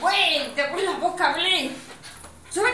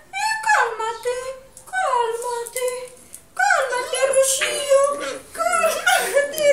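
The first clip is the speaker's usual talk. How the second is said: repeated cooing calm-down to a dog; sing-song soothing. Real, not acted. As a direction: coax the dog to settle. (arrullo para calmar al perro)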